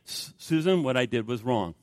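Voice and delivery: lightly acted contrite admission; apology. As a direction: own up quietly to your wife. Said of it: "he wants me to apologize".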